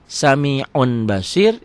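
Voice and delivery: SAMI'UN ending in a plain n; written form. Shown as a demonstration. Teacher restates the written form, plain n. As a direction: say SAMI'UN BASIR as spelled. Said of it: "itu dibacanya jadi".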